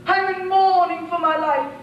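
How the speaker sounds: a hint of the gloomy princess mocked; imitating the princess. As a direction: ham up her gloomy voice. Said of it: "You imitated her".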